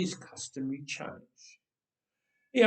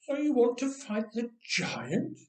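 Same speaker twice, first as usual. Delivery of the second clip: amused, higher mocking question; grinning; 8 semitones higher than usual. King grins at the small shepherd boy, amused. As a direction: tease the boy with a grin. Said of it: "grinned King Saul".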